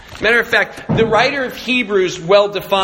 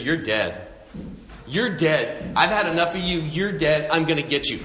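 sibling threat; 2 semitones lower, 5 dB quieter than usual. Acted. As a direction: quietly threaten like an annoyed older sibling. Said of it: "That's a threat".

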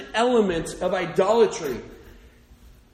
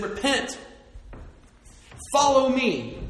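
Jesus' call; 9 semitones higher than usual. Retold or imitated. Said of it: "and he said".

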